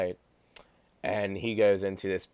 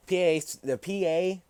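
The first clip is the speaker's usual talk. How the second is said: indignant outburst; 10 semitones higher than usual. Real, not acted. Ranting about Pennsylvania system.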